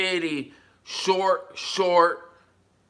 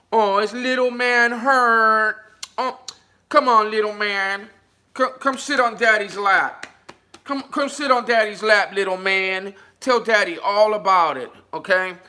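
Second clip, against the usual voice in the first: mock daddy comfort; 4 semitones higher than usual. Mock father comforting the troll, cooing. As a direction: coo at him like a fake dad.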